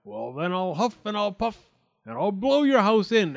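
high sneer building to a loud threat; big bad wolf, swelling with menace. A narrator's reading. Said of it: "The wolf sneered back".

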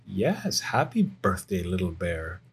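gently voiced loving mother; a touch of tenderness, softening at the end; tender Mother Bear. Mother Bear wishing her cub happy birthday, gently tender.

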